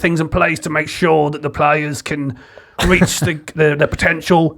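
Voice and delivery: a light, gravelly-leaning manager voice; Sean Dyche impression. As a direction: talk tactics like a gruff Premier League boss. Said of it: "Make your voice a bit gravelly for Sean Dyche".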